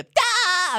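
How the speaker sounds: high bright cartoon "Da!"; full SpongeBob laugh. Shown as a demonstration. Showing the full laugh he couldn't do at first, high burst. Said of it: "it wasn't like a".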